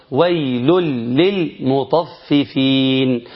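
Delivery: slow, careful "للمطففين" with a doubled lam; proper idgham. Shown as a demonstration. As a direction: recite it slowly, merging tanween into the lam. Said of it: "المجود يقول". (تلاوة متأنية بإدغام التنوين في اللام)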